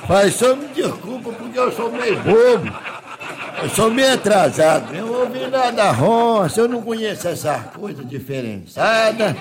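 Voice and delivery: rustic Minas yokel acting out the tale; naive country bumpkin, sheepish. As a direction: tell it as an innocent countryman who got laughed at. Countryman continues his embarrassing tale.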